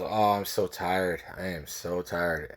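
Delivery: slow, lightly acted weariness; tired examiner. Driving examiner wiping his eyes, lightly acted tiredness. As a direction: drag it out as a sleepy man would.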